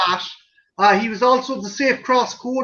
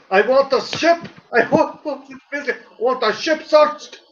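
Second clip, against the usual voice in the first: put-on David Prowse West Country accent; 3 semitones higher than usual. Joking to friends, Vader lines redone in broad West Country accent. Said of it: "this dirty West Country accent".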